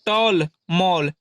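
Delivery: slow, careful टॉल, मॉल; teacher modelling the l sound slowly; slow example words. Shown as a demonstration. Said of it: "जैसे".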